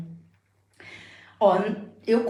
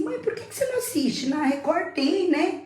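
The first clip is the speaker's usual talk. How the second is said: higher, fast daughter voice; imitating daughter; 8 semitones higher than usual. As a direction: lightly voice the daughter suggesting a show. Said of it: "a minha filha falou assim".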